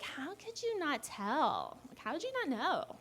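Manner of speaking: incredulous questioning. Retold or imitated. Onlookers questioning her after her parents' divorce, incredulous.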